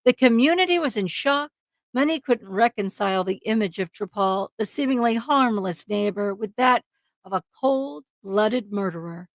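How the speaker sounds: dramatic true-crime narration; story narration. A narrator's reading. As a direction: read it as a suspenseful crime story. Reads the case story aloud.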